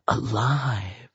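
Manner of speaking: soft, intimate whisper. A narrator's reading. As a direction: whisper it softly into an ear. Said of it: "she whispered".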